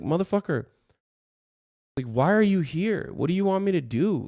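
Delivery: high-pitched, incredulous exasperation; exasperated demand. Real, not acted. Streamer confronting hostile viewers, real exasperation. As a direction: demand answers, pitch jumping right up.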